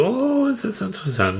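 mock fascination. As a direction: act tempted by the forbidden. Mock fascination with forbidden things.

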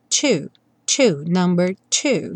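two said plainly as an example; the number two. Shown as a demonstration. Teacher compares the sound to the number two. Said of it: "soa igual o número dois".

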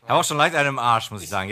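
a bit tipsy talking. Real, not acted. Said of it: "Ja, man merkt's". (leicht angetrunken)

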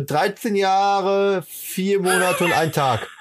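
slow, precise count; slow deliberate. Shown as a demonstration. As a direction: count each word out slowly. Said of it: "deliberate exact count".

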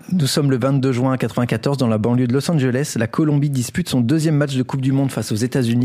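measured storyteller's news read; scripted story narration. Acted. Host tells co-hosts a Colombian crime story, scripted narration. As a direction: present it like a prepared radio chronicle.

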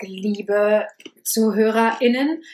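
slow, drawn-out cabin greeting; flight attendant. Pretend. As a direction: stretch it like an onboard welcome. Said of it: "ich mach die Stewardess".

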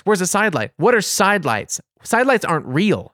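indignant, without full shouting; retold angry rant. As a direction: re-enact an incredulous rant. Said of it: "I was so mad, and I screamed".

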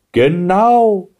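high, drawn-out agreement; butting in. A narrator's reading. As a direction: chime in eagerly. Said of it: "mischte sich da ein riesiger Zopf ein".

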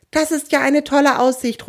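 high, mildly excited exclamation; excited call. A narrator's reading. Kunibert admires the view from the tunnel, excited. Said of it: "ruft Kunibert".

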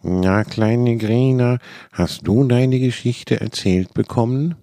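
put-on a fond dad greeting his little girl; smiling father voice. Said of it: "Zwange sah seine Tochter kommen und lächelte".

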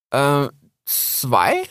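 high, hesitant little fox; young fox voice. Acted. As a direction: ask shyly like a small cub. Cub answers unsure.

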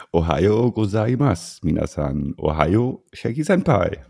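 playful anime-style greeting; chirpy Japanese-style hello; cute anime streamer. Pretend. Anime-style morning greeting to co-host.

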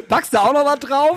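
asking through a high laugh; giggling out the request. Real, not acted. Laughing while requesting a song.

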